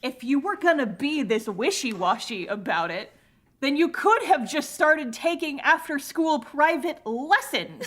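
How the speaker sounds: slowing, emphatic scolding that builds; mock scolding. Scolding the wishy-washy music student, mock exasperation. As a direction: lay out the obvious in mild exasperation.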